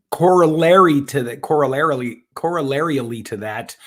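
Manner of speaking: tripping over "corollarily", then retrying as "corollarially"; tongue-tied stumble. Real, not acted. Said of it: "that was not easy to say".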